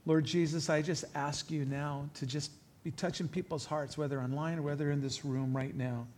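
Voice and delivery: softly spoken, earnest prayer. Real, not acted. Preacher asks Jesus to touch people's hearts, softly prayerful.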